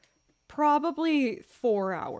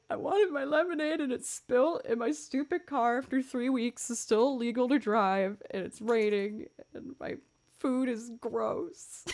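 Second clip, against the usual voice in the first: higher, whining complaint about a bad morning; whiny self-pity; 3 semitones higher than usual. Streamer retelling her morning, whining. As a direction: pout through the list of woes. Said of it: "I was so sad".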